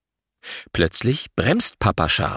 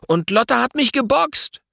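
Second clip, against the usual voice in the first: defending himself. A narrator's reading. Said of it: "Louis wehrt sich".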